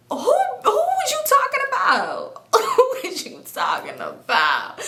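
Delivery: exaggerated, slow mock-challenge; mocking confrontation. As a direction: stretch it out in a hammed-up whine.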